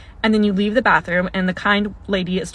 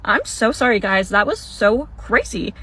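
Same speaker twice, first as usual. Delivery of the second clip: embarrassed apology. Retold or imitated. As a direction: laugh off the embarrassment, imitating a sheepish apology. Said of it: "you do one of these".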